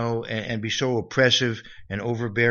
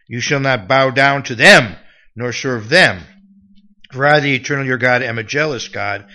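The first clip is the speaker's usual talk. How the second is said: louder, declaimed scripture; scripture reading; 10 dB louder than usual. Acted. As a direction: proclaim the commandment to the congregation. Reads scripture aloud.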